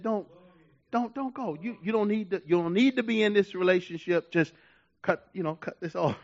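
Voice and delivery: softly voiced warning from within; quiet inner warning. Holy Ghost's inner warning, retold.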